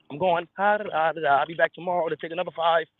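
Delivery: high gleeful devil taunt; gloating devil. Retold or imitated. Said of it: "That's how he works".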